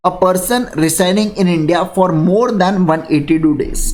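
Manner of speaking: dictating word by word, very slowly; slow deliberate dictation of a legal definition; very slow reading. Shown as a demonstration. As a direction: read it out so students can write. Reads the definition out for class.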